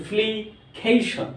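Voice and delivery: "ফ্লিকেশন" slowly, in separated syllables; pronunciation demo. Shown as a demonstration. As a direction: break "ফ্লিকেশন" into slow, distinct beats. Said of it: "এইভাবে যদি আমরা জেনে উচ্চারণ করি".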